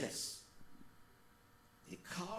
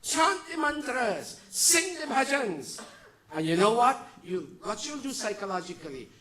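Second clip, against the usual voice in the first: usual speaking voice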